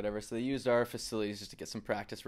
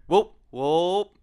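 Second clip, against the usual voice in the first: curling skip yelling; 7 semitones higher, 12 dB louder than usual. Shown as a demonstration. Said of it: "your best, uh, hurry hard".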